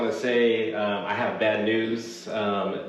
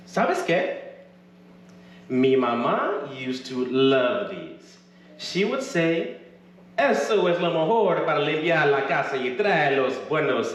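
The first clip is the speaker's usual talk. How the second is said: Latina character voice; 6 semitones higher, 3 dB louder than usual. Acted. Retina voiced in Spanglish.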